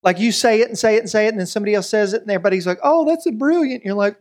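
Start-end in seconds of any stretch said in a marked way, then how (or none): 2.8-3.8 higher-pitched, mildly gushing praise; mock admiration. Everybody praising someone else's repeated idea, mock admiration. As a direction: act out an easily impressed crowd. Acts out impressed listeners crediting someone else.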